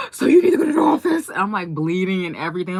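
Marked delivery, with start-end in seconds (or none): 0.1-1.3 high, loud, hurried teacher voice; flustered teacher. Retold or imitated. Teacher sending the hurt girl to the office, high and hurried. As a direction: rush the kid off to the office. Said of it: "She's like".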